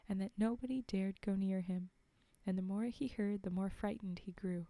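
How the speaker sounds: measured fairy-tale reading voice; clearly projected storytelling; story narration. A narrator's reading. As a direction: read it aloud like a storybook. Reads a fairy tale aloud.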